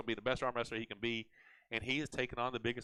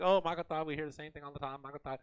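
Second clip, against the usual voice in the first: put-on light, goofy Indian accent; mock a heckler in an Indian accent; 4 semitones higher than usual. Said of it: "you had a Indian accent".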